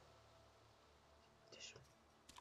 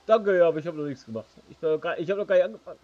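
laughing; 4 semitones higher, 12 dB louder, much faster than usual. Real, not acted. Laughing off praise.

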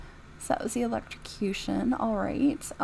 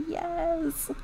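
whispered; 7 semitones higher than usual. Retold or imitated. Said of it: "She's like".

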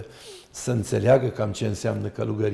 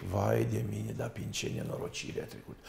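mock pity; 4 semitones lower, 10 dB quieter than usual. Mimics people pitying a divorce.

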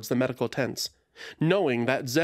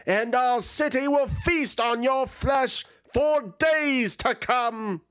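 warrior's threat; 11 semitones higher than usual. Acted. Draconid Zradka threatening the dragon, high and fierce. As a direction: promise the beast a grisly end.

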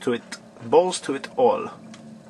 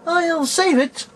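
sing-song; 13 semitones higher, slower than usual. Pretend. Saving the game.

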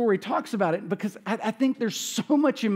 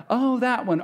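shocked realization; 5 semitones higher than usual. Retold or imitated. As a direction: say it like the penny just dropped. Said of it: "No, it's like".

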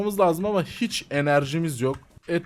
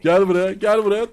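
calling out; 5 dB louder than usual. Real, not acted. Calling a target to come.

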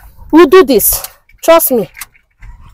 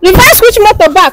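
raised, indignant challenge; confrontational challenge; 3 semitones higher than usual. Acted. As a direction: challenge the driver, pitched up. Confronting another driver.

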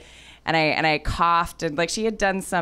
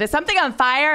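put-on worried old woman; 9 semitones higher, 3 dB louder, faster than usual. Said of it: "she said".

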